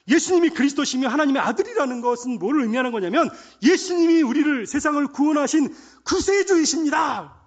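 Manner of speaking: loud, high preaching shout; fervent proclamation. Real, not acted. Preacher telling the congregation who Jesus is, shouted proclamation. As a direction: proclaim it at full force, stretching the climax.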